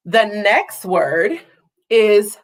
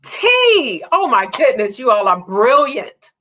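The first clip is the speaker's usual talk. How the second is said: excited confirmation; 2 semitones higher than usual. Real, not acted. Confirming correct answer.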